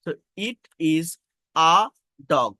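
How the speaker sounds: very slow, word by word; slow classroom example. Shown as a demonstration. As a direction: spell out each word slowly. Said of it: "so এর উচ্চারণ".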